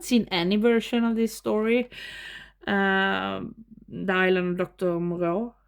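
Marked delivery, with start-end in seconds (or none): 3.9-5.5 title said in a light Swedish accent. Shown as a demonstration. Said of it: "I say with the Swedish accent".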